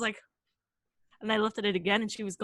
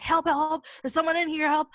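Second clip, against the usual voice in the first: higher, louder mock plea; imitated cry for help; 7 semitones higher, 6 dB louder than usual. Storyteller voices friend banging on the bathroom door, imitated cry for help. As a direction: call out like someone trapped, half in earnest.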